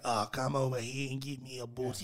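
put-on Aussie invitation; Australian accent. Guest showing how Australia says it, Australian accent. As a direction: say it in mock Australian. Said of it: "You say in Australia, you're like".

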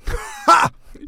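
single high-pitched "ha"; short laugh. Pretend. Host welcoming viewers to the recommendation channel, sudden high laugh. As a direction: burst out one high, breathy laugh. Jokey burst during the intro.

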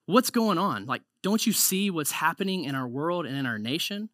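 pleading with God. Retold or imitated. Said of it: "We're like".

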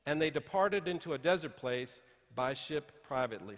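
scripture reading. Acted. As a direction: read the verses out deliberately to the congregation. Pastor reads scripture aloud.

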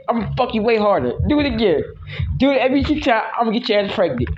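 mock threat. Mock threatening partner playfully.

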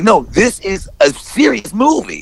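slow, high, emphatic rebuttal; emphatic correction of a doubter; emphatic insistence. Retold or imitated. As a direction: insist on it word by word. Insists it is serious.

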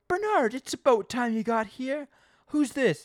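loud, high, drawn-out mock scolding; blustering shop owner. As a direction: burst out hammed-up and impatient. Acting Bart rushing out.

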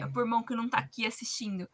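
sly aside in a whisper. Pretend. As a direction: whisper it like a cheeky excuse. Mock excuse in a quoted thought.

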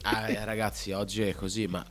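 stuffy nose from a cold; talking through a blocked nose. Real, not acted. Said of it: "Sentite qua tutto lo smoccolamento in diretta".

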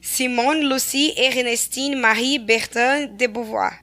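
slow, careful French, each name spelled out: Simone Lucie Ernestine Marie Bertin de Beauvoir; French pronunciation. Shown as a demonstration. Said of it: "Perdão, meu francês".

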